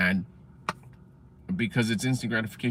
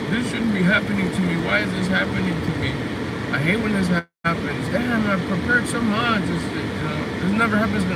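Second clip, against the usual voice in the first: high, self-pitying whine near tears; high whimpering pity-party voice; whiny sad mode; 8 semitones higher than usual. Retold or imitated. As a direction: moan like the world's against you. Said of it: "almost like you wanna cry".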